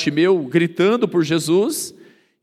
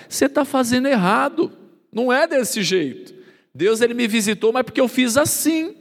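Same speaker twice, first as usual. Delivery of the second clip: higher, preachy put-down; know-it-all; 5 semitones higher than usual. Retold or imitated. Churchgoer correcting someone, higher and smug. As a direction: lecture them like you know best.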